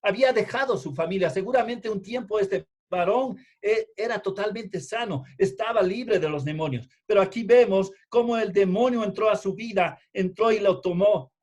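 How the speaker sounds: pressing pulpit exposition; emphatic preaching. Real, not acted. Preaches with raised voice.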